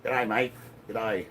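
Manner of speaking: a second timid try at an Australian "G'day, mate"; weak Australian accent. Retold or imitated. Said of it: "I can't do that accent".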